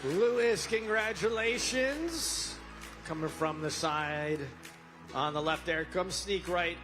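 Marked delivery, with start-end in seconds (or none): 0.0-2.5 excited. Real, not acted. Calling out winner's name.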